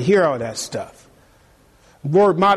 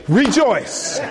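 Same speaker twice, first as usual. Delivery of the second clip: laughing reply; 6 semitones higher than usual. Pretend. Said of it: "I'm gonna say".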